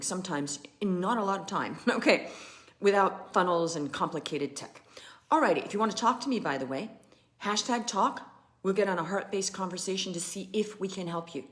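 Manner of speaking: ordinary talk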